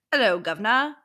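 light imitation of a Cockney greeting; Cockney accent. Showing co-host how the audiobook voices Baxian, light Cockney accent. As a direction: put on a hint of Cockney. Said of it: "He has a Cockney accent".

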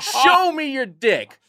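Captain Falcon taunt with a laugh; Captain Falcon taunt cadence. Retold or imitated. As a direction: call it out like a fighting-game taunt. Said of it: "With the cadence of Captain Falcon's taunt in Smash Brothers".

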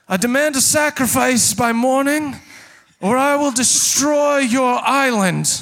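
booming voice. Acted. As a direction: boom out a royal threat. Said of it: "you hear a booming voice go".

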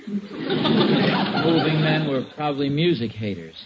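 chuckling through the joke, slow; amused, slowed-down chuckle while talking; laughing. Real, not acted. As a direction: laugh as you land the quip. Joking about scratched cabinet.

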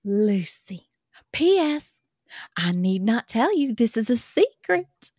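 put-on reading a love letter in a light Southern accent. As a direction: read it as a swooning Southern girl. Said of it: "that accent".

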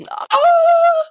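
high, loud sudden realisation; a sharp gasp of delight; surprised. Real, not acted. Realises the Dalmatians house number.

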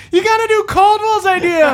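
high, loud comic whine rising to a yell; hammed-up stand-up comic impression; Jerry Seinfeld. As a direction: complain it at top pitch, exasperated sitcom comedian. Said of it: "go in a Jerry Seinfeld voice".

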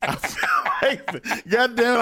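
slow, voice catching with emotion; fighting back tears, fired up; choked up. Real, not acted. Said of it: "He's gonna start crying again".

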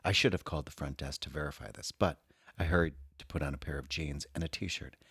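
soft sultry reading voice; sultry perfume ad. Acted. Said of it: "read that with a sexy, sultry voice".

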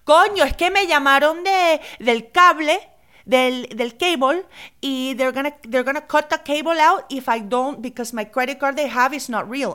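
high-pitched Spanglish mom impression; imitating mom. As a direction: do mom explaining herself, pitched well up. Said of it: "This is literally my mom".

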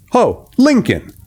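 high, slow call to the servant. A narrator's reading. Host calls his servant across the house, high and slow. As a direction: call Lincoln from across the hall. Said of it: "he shouted".

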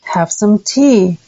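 slow learner echo; careful imitation; slow repeat. Shown as a demonstration. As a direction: repeat it slowly after the model. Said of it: "did you hear my voice echo".

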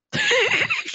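a sudden very high laughing squeal; high squeal of laughter. Real, not acted. Retelling a stranger asking her for meth, squealing laugh.

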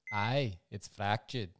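slow, soft, badly faked Scottish doctor; a half-hearted Scottish brogue, drawn out; put-on Scottish accent. Doctor answering the injured rider, in a shaky Scottish accent. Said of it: "shitty effort at a, at an accent".

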